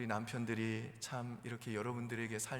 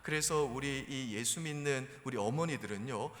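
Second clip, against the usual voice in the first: ordinary talk, nothing marked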